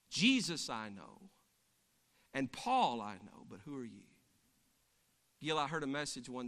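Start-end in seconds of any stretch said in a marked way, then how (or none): 0.1-4.1 low, wicked demon voice; demon-possessed voice. Shown as a demonstration. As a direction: growl it like an evil spirit. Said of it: "throw your wicked, evil voice in there. Demon-possessed voice".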